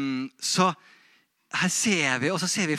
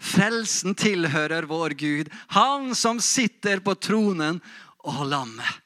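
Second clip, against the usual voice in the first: measured calling out; 2 semitones higher, 4 dB louder, slower than usual. Acted. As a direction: declare it solemnly as a shared cry. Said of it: "vi også være med og rope". (behersket, høytidelig utrop)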